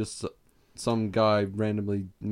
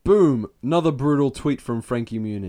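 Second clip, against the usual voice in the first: hype announcer; 3 semitones higher, 5 dB louder than usual. Acted. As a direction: announce it like a knockout. Hyping the tweet.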